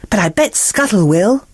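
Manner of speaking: thrilled by a new treasure; excited. Acted. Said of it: "replied Ariel excitedly".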